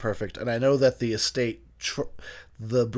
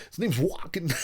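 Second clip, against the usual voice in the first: higher-pitched, clumsy celebrity impression; Christopher Walken; 5 semitones higher, 3 dB quieter than usual. Finally recalling the actor's name, in a bad Walken impression. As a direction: slip into a badly done actor impression. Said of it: "Sounds like a retarded Walken is what that sounded like".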